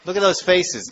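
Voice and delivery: a hint of excited cowherd boy; playful boys. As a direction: call a friend over to see something funny. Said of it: "So then Krishna boys".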